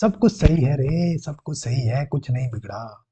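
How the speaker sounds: gentle, soothing self-talk that fades; self-reassurance. Shown as a demonstration. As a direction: reassure your own mind, easing down to a hush. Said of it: "दिमाग को ये बताना शुरू करें".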